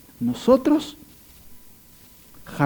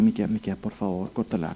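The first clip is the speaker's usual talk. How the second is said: softer, lower, weary please stop it; mock exasperated plea; 8 semitones lower, 7 dB quieter than usual. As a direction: sigh it out like a fed-up listener. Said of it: "cualquier lector podría decir".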